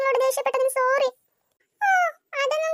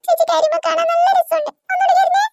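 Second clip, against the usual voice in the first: louder, higher playful taunt; teasing; 4 semitones higher, 5 dB louder than usual. Acted. The boy taunts the crying girl, louder and higher. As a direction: taunt her gleefully.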